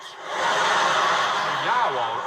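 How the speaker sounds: exaggerated Brummie greeting; Birmingham accent. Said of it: "key phrases for Birmingham".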